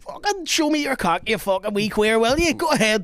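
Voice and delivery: mock hard man taunt. The stranger taunting in the stall, mock thug. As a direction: sneer it like a toilet bully. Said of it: "retold stranger's taunt".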